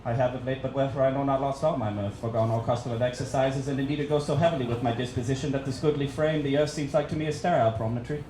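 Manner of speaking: low, solemn theatrical recitation of Hamlet; Shakespearean soliloquy. Acted. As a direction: intone it like a brooding Prince of Denmark on stage. Shakespeare soliloquy performed as Bill.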